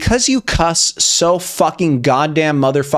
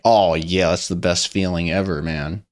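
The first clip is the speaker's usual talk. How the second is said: blissful relief; 8 semitones lower, 4 dB quieter than usual. Acted. Relief at better stream bitrate.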